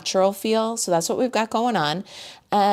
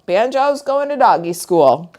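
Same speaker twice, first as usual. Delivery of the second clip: amused; 2 semitones higher, 7 dB louder than usual. Real, not acted. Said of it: "It just sounds so funny saying it".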